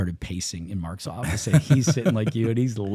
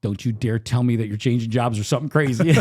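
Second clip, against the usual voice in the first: raised, higher voice as alarmed wife; retold stern warning; 4 semitones higher, 5 dB louder than usual. Wife dreading her husband's career change, indignant warning. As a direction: warn him off, loud and indignant.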